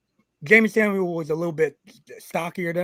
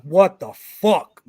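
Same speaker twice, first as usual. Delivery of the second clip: mock disbelief; 3 semitones higher, 6 dB louder, much slower than usual. Shocked at partner being hit.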